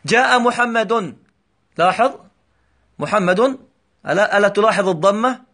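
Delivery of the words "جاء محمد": slow example. Shown as a demonstration. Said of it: "مثلًا".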